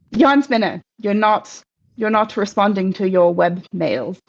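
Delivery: lightly voiced self-important spider page; officious spider messenger. Web page spider introducing himself to visitors, officious. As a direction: introduce yourself formally, then gently chide.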